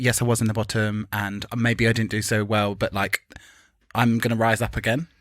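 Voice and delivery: understated calm acceptance; Raja. Retold or imitated. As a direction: lightly imitate elegant self-reflection. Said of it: "Raja seemed so composed and elegant".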